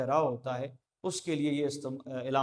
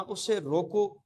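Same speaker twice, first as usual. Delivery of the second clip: "रोको" said slowly and raised; slow, higher "उसे रोको", set apart; command to stop; 4 semitones higher, slower than usual. Shown as a demonstration. Teacher repeats the part that means stop him, slowly stressing "रोको". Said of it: "हमने इसको रोकने के".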